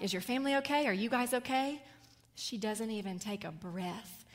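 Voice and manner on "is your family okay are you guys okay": worried servant. Retold or imitated. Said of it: "he's like".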